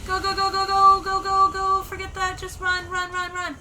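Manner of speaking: high, loud urgent urging; frantic hurry, pushing yourself on. Real, not acted. Fleeing enemies.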